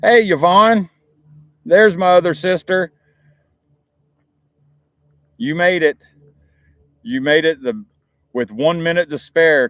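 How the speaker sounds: high, loud, delighted hello; light up as she joins; calling out happily to a sister who just arrived; excited greeting. Real, not acted.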